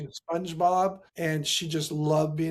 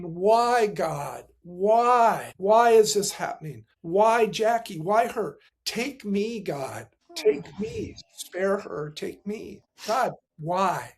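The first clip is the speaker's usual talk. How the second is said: anguished pleading; 3 semitones higher, slower than usual. Retold or imitated. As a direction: plead upward with drawn-out, stressed whys. Retold anguished pleading in van.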